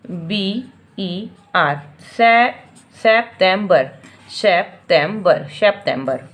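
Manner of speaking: बी ई आर dragged slowly, then सितंबर repeated; careful teacher drill; syllable drill. Shown as a demonstration. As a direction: join the three chunks into सितंबर. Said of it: "तीन टुकड़े".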